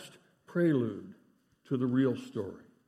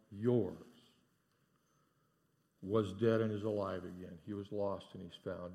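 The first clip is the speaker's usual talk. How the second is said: tender father; 2 semitones lower than usual. Acted. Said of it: "Hear the words of the father".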